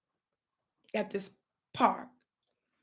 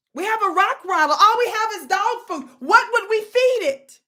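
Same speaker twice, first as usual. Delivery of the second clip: worried mother; 9 semitones higher, 8 dB louder than usual. Retold or imitated. Mother wonders what to feed it, high worried voice. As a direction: fret over feeding the thing. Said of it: "And so she said".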